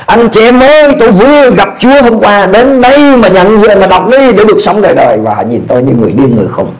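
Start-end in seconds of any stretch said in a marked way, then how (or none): 0.1-5.2 calling out. Retold or imitated. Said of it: "tôi hô lên".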